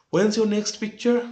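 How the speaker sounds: high, slow, loud mock question; loud taunt. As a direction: call it out slowly as a stagey jibe. Husband taunts wife in the play. (চড়া গলায় টেনে টেনে খোঁচা)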